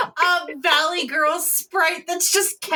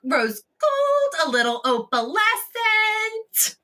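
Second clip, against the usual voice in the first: Adrena's happy voice. Acted. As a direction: play a happy jewelry shopper, stretching the last words. Plays Adrena to the vendor.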